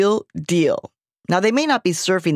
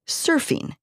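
dramatic reveal; 10 semitones higher, 4 dB quieter than usual. Acted. Dramatic one-word reveal.

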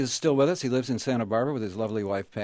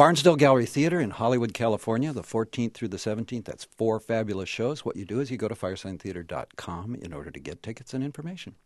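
radio announcer. Shown as a demonstration. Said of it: "Just go for it".

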